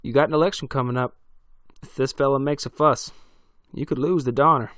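loud, fast and high-pitched; a hunter loudly warning the sheriff about his election; pushy warning. A narrator's reading. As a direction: press the point fast and loud. Armed townie warns sheriff.

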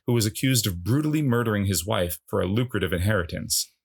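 measured, announcer-like plot summary; film synopsis read. A narrator's reading. Host introducing the film to listeners, measured synopsis read.

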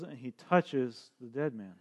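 hushed whisper. Real, not acted. Preacher hushes as Jesus touches the dead, whispering. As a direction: breathe it out in a hush.

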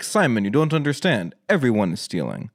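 a lightly done mock Slavic accent; a hammed-up bad Slavic accent that barely leaves his own voice; terrible Slavic accent. Quoting a Ukrainian official to Simon, bad mock Slavic accent. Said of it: "that's my terrible Slavic accent".

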